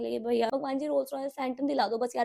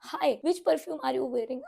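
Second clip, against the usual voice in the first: creepy stranger; much slower than usual. Retold or imitated. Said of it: "उसके मुंह से पहली लाइन".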